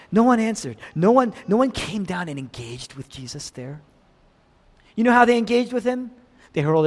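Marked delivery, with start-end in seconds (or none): 0.1-2.9 emphatic repeat. Shown as a demonstration. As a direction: drive the repeat home. Repeated line, then emphatic.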